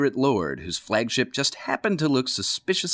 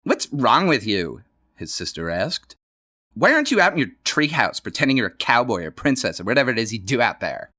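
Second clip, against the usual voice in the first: teasing sister. Acted. Johnny's sister teases him about the treehouse, quick and dismissive. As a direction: rattle it off like a bored big sister.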